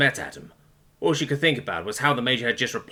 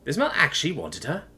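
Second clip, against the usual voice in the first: high, incredulous inner voice; astonished realization; 9 semitones higher than usual. A narrator's reading. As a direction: marvel at an unexpected chance, pitch climbing. Her astonished thoughts after confession.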